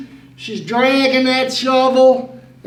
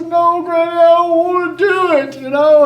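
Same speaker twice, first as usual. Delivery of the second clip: put-on whiny child; 5 semitones higher than usual. Child refusing Granny.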